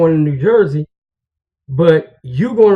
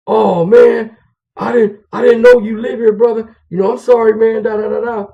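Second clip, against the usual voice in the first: apologetic; 4 semitones higher, 3 dB louder than usual. Retold or imitated. Retold apology of the visitor.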